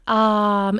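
"um" opened toward "ah", placed forward; British hesitation "um", further forward. Shown as a demonstration. Coach repeating the sample, British um. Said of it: "closer to an R and a little more forward".

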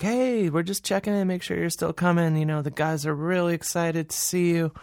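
high chirpy voice of the prison staff; bright, eager organizer checking in; mock cheerful staff. Prison organizer checking in with the comedian, chirpy mock voice.

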